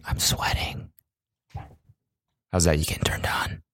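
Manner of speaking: mock-seductive ASMR whisper. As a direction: whisper teasingly into the mic. Resumes joke ASMR whisper.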